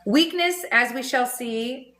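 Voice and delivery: measured reading of a spiritual text; calm book reading; reading a text aloud. Acted. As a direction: read it out steadily like a passage. Reads book passage aloud.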